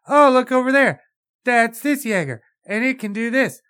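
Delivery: high, loud, gushing show-and-tell; mock wide-eyed excitement. Critic imitating girl arriving at the base, mock-excited and high. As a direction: point out each one with exaggerated wonder. Mimics girl showing off the Jaegers.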